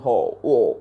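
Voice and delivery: low imitated grunted "oh" sounds; Mister Bean. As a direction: mimic a comic character's wordless low oohs. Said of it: "he'll be giving some sounds".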